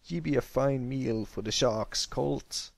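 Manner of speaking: menacing pirate king, taunting; gloating pirate villain. A narrator's reading. Ironhoof taunting Pipsqueak at the bowsprit, menacing. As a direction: sneer it at the cornered hero. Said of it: "Ironhoof cackled evilly".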